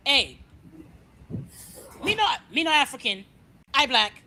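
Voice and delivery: mock African accent. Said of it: "That's what the fuck I'ma say".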